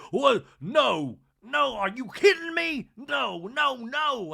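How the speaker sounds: shrieking, high, loud disbelief; Sutton flipping out. Retold or imitated. Sutton hearing the eyeshadow brush story, shrieking. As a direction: recoil in horror at the story. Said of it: "And Sutton flips out".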